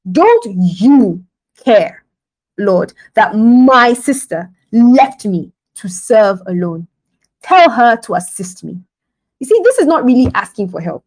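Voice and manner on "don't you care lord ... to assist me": slow, emphatic complaint with heavy pauses; venting frustration. Acted. Martha complaining to Jesus about her sister, venting. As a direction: act out an aggrieved, drawn-out demand. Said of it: "more like venting your frustrations".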